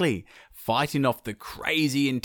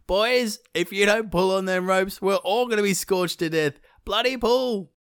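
urgent high yell; a desperate shout for them to pull; 9 semitones higher than usual. Acted. Maui yells again at his frozen brothers, urgent and high. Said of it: "But Maui yelled again".

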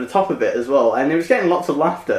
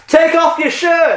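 slow, much higher and louder heckle; heckler's shout; 12 semitones higher, 3 dB louder, slower than usual. Retold or imitated. Heckler at the back yelling at the comedian, slow loud shout. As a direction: yell it from the back of the room. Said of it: "this guy shouts at the back".

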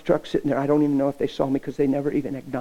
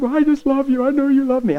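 her voice; 12 semitones higher, 7 dB louder than usual. Retold or imitated. Girl answers him, crying.

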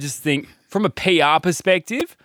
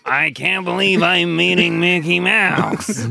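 slow, higher, put-on British voice; Michael Caine; 7 semitones higher, slower than usual. British actor thrilled at meeting Mickey Mouse, slow put-on voice. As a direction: stretch it out in mock amazement. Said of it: "Michael Caine?".

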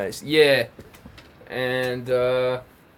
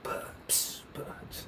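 drum imitation; 15 dB quieter than usual. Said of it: "the drums would be just".

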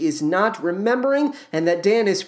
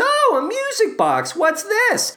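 much higher, wondering wife; high Diana voice; 14 semitones higher than usual. Acted. Wife finds a music box, asks in a high voice. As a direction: lift way up for the curious wife.

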